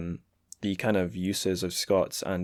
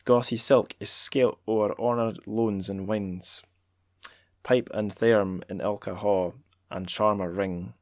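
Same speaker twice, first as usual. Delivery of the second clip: Scots accent. Shown as a demonstration. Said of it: "shall I keep doing the accent?".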